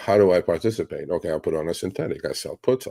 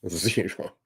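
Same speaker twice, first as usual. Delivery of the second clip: laughing zero; 5 dB quieter than usual. Real, not acted. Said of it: "zero remorse".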